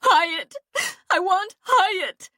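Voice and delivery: high, loud demand, slowing; shouting. A narrator's reading. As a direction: scream for him like a spoiled child. Fawn screaming for Hyatt.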